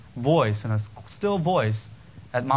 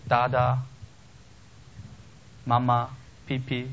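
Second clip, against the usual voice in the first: put-on baby talk. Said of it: "And it's the baby talk".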